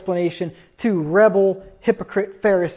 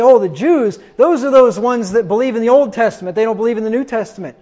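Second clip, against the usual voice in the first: mock claim; 3 semitones higher, 6 dB louder than usual. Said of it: "You see, people say".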